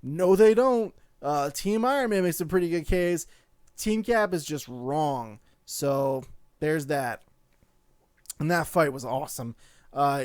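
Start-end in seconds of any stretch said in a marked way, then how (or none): 0.0-5.4 louder, mock indignant fan retort; worked-up fan in the theater; indignant reaction. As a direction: insist your team is right. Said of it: "I'm in the theater like".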